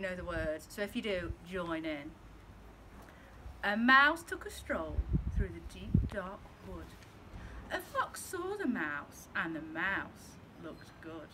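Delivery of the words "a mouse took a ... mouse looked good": gentle storybook narration; reading to children. Acted. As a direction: read it like a bedtime story for little ones.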